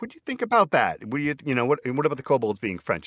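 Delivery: high-pitched retold suggestion; eager pitch. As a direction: float the idea up high, imitating yourself asking. Pitching an idea to the author.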